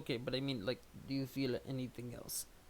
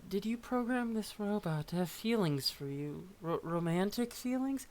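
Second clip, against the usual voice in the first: demanding character voice; 6 semitones higher than usual. Acted. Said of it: "I can't do the accent".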